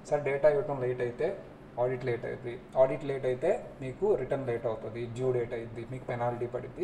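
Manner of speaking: polite, cool reply to a client holding back data; calm and cool. Shown as a demonstration. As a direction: explain the delay calmly, never raising your voice. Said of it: "ఇలా కూల్గా చెప్పాలి".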